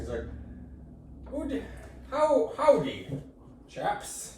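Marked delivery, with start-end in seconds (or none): 1.3-4.3 hint of James Bond English accent; lightly put-on English accent, pitched up; English spy fumbling at country talk. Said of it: "he's still got the English accent".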